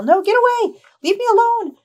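high, loud youngster's cry; kid's high-pitched, panicked yell; young voice yelling. Acted. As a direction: yell to drive off attackers. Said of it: "you hear this voice continue to yell".

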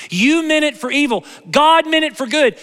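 emphatic repeat. Retold or imitated. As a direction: ring out "God meant it for good" as the point. Joseph's words, emphatic repeat.

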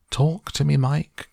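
high, loud anxious plea; pleading cry. A narrator's reading. Mother begging her tiny son to speak, pleading cry. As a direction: cry out for an answer. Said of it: "cried Missus T V".

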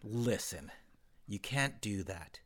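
low, quiet aside in a measured voice; hushed mock counselor. Co-host imitating the guest with a student in her office, hushed and low. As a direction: keep it low and confidential, like a mock telling-off.

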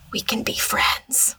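slow, creepy retold whisper; drawn-out stage whisper. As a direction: whisper it slowly and eerily. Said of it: "and then she whispers".

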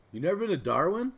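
disbelieving, rising fast at the end; can't believe what you just heard; incredulous question. Real, not acted. To a friend who never visited Darwin, incredulous.

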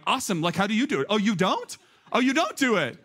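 feigned surprise, pitch climbing; mock enthusiasm. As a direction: act out a sarcastic comeback to critics. Retold sarcastic reply to church critics.

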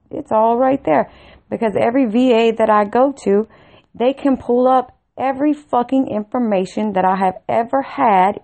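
retold indignant rant, hammering the key words; exasperated demand. Caller demands answers from VA about three months of scanning, exasperated. Acted angry phone demand to VA.

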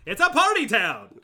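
loud, high hammed-up whoop; party cheer. Hyping the city to his co-host, rowdy mock cheer. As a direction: announce it like a rowdy reveller.

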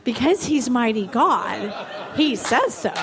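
laughing through the words. Real, not acted. Preacher to the congregation, laughing through it. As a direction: chuckle while landing the punchline. Laughing at her own point.

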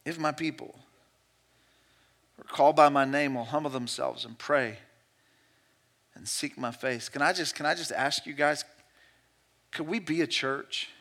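soft, low, reflective sermon voice; quiet preaching. Acted. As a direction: draw them in, almost hushed. Soft pleading close.

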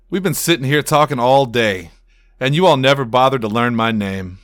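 feigned hurt. Acted. Culprit feigning hurt at the crowd.

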